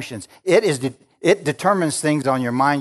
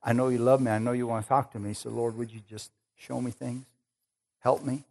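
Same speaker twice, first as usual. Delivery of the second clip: humble prayer; 6 dB quieter than usual. Pretend. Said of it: "You gotta say".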